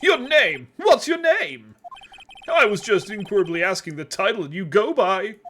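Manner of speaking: pompous rich Southern businessman; southern oil tycoon voice. Acted. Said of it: "southern U S, um, oil tycoon voice".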